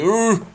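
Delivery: short high startled "uh"; a quick rising hoot of fright. Real, not acted. Player spooked in a horror game, startled hoot.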